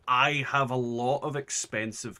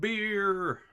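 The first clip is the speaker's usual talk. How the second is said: excited shout; 10 semitones higher, 4 dB louder than usual. Real, not acted. Cheers at the beer reward.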